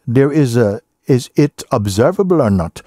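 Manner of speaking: ordinary talk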